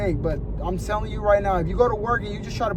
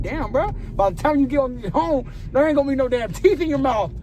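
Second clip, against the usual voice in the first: louder teasing jab at mom; mock yell; 5 semitones higher, 4 dB louder than usual. Teasing his mom about her gritted teeth, louder. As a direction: call out to mom, louder and mocking. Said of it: "I'm like".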